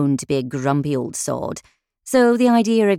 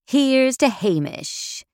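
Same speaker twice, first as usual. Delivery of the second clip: slow raised toast; 9 semitones higher, slower than usual. A narrator's reading. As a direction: lift a glass and drawl it out, higher. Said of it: "as I toasted my absent boss".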